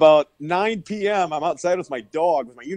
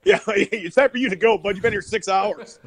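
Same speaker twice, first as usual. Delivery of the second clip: mock host; 5 semitones higher than usual. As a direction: playfully shoo the guest out. Voicing host kicking him out.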